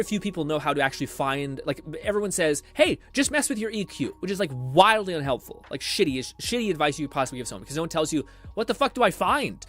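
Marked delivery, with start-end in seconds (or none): 2.7-4.1 higher-pitched mimicry of a know-it-all; glib advice-giver. Streamer mocks people giving unhelpful EQ advice, glib. 8.5-9.6 high-pitched mock exasperation; exasperated learner. Streamer voices learner nobody tells what to find, exasperated.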